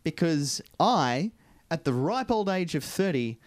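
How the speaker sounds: lisping through new braces. Real, not acted. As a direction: talk with a slight lisp around braces. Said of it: "my voice sounds slightly different".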